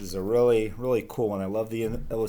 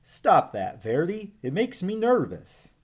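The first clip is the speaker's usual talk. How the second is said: higher, louder nervous complaint; Ribbon complaining; 10 semitones higher, 3 dB louder than usual. Acted. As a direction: snap it out, rattled by the tapping. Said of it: "Ribbon complained".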